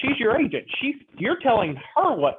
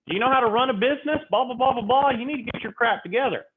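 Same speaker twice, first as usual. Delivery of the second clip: fast, higher mock-angry seller scolding the agent; furious seller; 4 semitones higher than usual. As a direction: rattle off a lightly acted scolding. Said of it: "Mister Keith is now furious".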